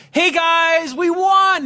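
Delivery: very high, loud triumphant rich-guy cheer. Shown as a demonstration. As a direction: cheer like you've never lost. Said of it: "To me, it's like".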